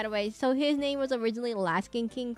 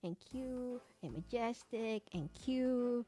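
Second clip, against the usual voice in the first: gushing; 5 dB quieter, slower than usual. Real, not acted. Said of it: "emphasis on the cute".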